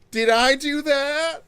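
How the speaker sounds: high nasal nerdy whine; squeaky nerd catchphrase; Urkel voice. Retold or imitated. Steve Urkel catchphrase impression.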